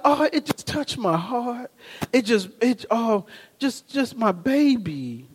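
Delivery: soft, halting mock tearfulness; lightly hammed-up weepy voice; imitated crying. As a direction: softly mimic a wife moved to tears.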